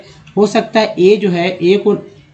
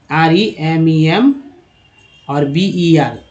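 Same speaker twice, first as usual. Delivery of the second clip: slow spelling out; much slower than usual. Shown as a demonstration. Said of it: "इसमें तीन ई है".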